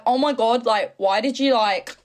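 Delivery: badly faked Australian accent; mock-indignant Australian woman; angry Aussie impression. Streamer mimicking cheated-on reality star, angry Aussie accent. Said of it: "I can't do an Australian accent".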